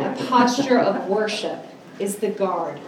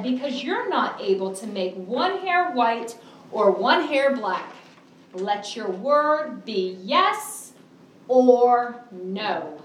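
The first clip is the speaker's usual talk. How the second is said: scripture reading; 2 semitones higher, slower than usual. Acted. Reads scripture aloud.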